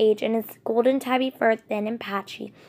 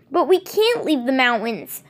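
breathless shock; 3 semitones higher, 3 dB louder than usual. Acted. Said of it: "her voice breathless with shock".

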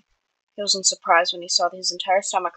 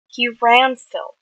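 fretting; 4 semitones higher, 5 dB louder than usual. A narrator's reading. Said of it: "Wilbur fretted".

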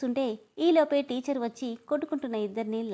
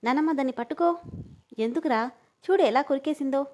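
louder whiny appeal to grandma; boy wails to his grandma about the bite; loud complaint; 3 semitones higher, 4 dB louder than usual. Acted. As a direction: yell for grandma's help.

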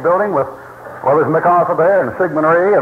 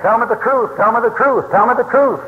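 pleading mother; 6 semitones higher than usual. Retold or imitated. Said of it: "that woman saying".

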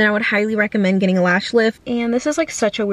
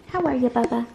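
annoying animal voice; 2 semitones higher than usual. Real, not acted. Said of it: "their annoying, like, animal voice. That's mine".

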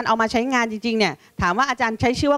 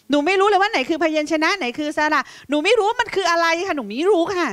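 put-on higher-pitched child explaining helplessly; pleading pupil; 6 semitones higher than usual. Pupil tells teacher they can't tell letters apart, helpless plea. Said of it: "เหมือนกับที่หนูตอบคุณครูว่า".

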